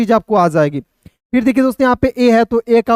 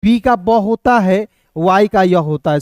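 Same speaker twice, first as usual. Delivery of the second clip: slow, spelled-out sound by sound; teacher slows to show each letter sound; 2 semitones lower, slower than usual. Shown as a demonstration. Teacher showing students each letter sound, slow and deliberate. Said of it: "बिल्कुल ध्यान से देखिएगा".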